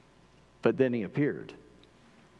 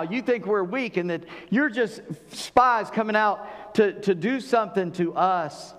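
slow, higher accusation of spies; accusing governor; 4 semitones higher than usual. Retold or imitated. Joseph accusing his brothers, a stern mock accusation. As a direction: drag out the no, then press the charge. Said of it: "he looks at him and says".

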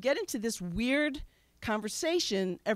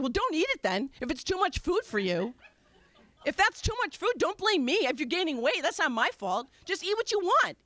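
raised, higher pitched defensive retort; defensive snap; 4 semitones higher than usual. Retold or imitated. Wife snapping back at husband over dinner, defensive and higher pitched. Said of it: "I would instantly feel so defensive".

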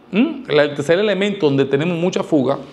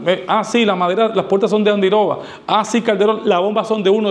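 lightly voiced client, raised pitch; client ticking off checklist; 3 semitones higher than usual. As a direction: confirm each item aloud, a bit higher. Acted client checking off the list. (cliente repasando la lista, tono algo más agudo)

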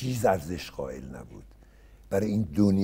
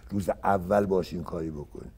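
usual speaking voice

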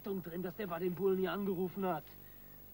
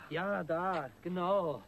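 louder eager push; there it is, louder; excited urging; 2 semitones higher, 7 dB louder, much slower than usual. Acted. Crook urging partner where to dig, excited. Digging for loot at night.

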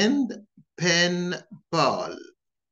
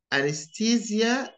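"Anesthesia" said in the British way; British pronunciation; 6 semitones higher than usual. Shown as a demonstration. Teacher showing learners the British accent. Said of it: "notice the differences between them".

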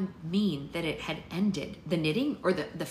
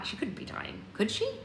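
whispered fear; 4 semitones higher than usual. Acted. Essie's fearful thought.

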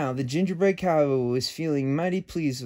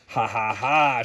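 mocking laugh; 4 semitones lower than usual. A narrator's reading. The cookie laughs as the lasso falls short, mocking. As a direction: laugh at their miss. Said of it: "shouted the gingerbread cowboy".

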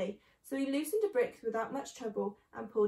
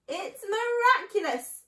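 high, slow, loud marvelling; breathless awe; 9 semitones higher, 7 dB louder, slower than usual. Acted. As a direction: marvel slowly, fighting for breath. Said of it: "he whispered, fighting for breath".

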